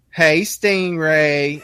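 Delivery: slow, drawn-out sultry "Hey, Stingray"; wife's flirty greeting. Retold or imitated. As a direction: stretch "Hey, Stingray" out slowly, cooing. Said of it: "She was like".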